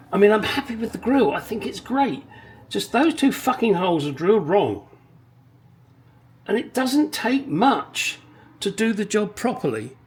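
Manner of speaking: venting about the badly drilled holes; annoyed rant. Real, not acted. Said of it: "You can tell I'm a little bit pissed".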